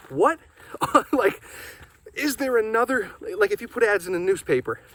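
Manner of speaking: breathless while walking uphill; out of breath. Real, not acted. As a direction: talk while winded from climbing. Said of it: "sorry, I'm out of breath".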